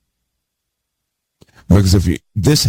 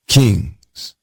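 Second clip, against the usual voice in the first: usual speaking voice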